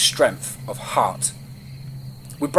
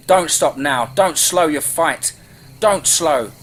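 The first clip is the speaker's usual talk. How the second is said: urgent urging; 3 semitones higher, 4 dB louder than usual. Acted. Urging on during the chase.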